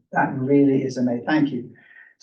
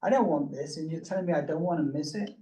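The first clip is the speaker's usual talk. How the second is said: incredulous inner thought; 2 semitones higher, 5 dB quieter, faster than usual. Retold or imitated. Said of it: "I'm thinking".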